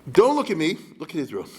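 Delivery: loud burst on Don't look at me, then dropping; acting out a country deflecting blame; mock shout. Mock deflecting accuser, acted.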